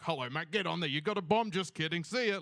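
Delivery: lightly voiced jokey airport screener; breezy security guy. Australian security guy joking with a traveller, breezy. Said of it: "The guy at the T S A thing is like".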